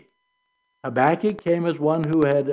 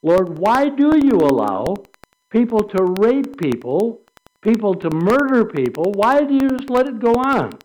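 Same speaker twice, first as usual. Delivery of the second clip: impassioned plea; 5 semitones higher, 5 dB louder than usual. Acted. Praying to God about injustice, impassioned louder plea. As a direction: pour out the outrage to the Lord. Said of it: "asking God the hard questions".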